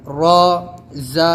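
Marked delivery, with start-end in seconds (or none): 1.1-1.3 "زا" said hard, tongue tip pushing at the upper teeth; hard buzzing letter. Shown as a demonstration. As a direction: press out a firm "زا". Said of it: "سختی سے بولنا ہے".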